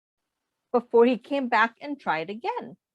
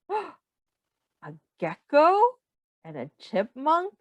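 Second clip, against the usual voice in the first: gasp, then a slow, wide-eyed reveal; mock surprise for young listeners; surprised discovery; 3 semitones higher, slower than usual. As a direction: act amazed for the kids. Picture reveal to children.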